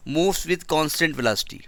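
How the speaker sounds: slow, word by word for note-taking; slow dictation. Shown as a demonstration. Teacher dictating a sentence to students, slowly. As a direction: dictate it slowly so the class can write. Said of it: "तो आप लिखेंगे".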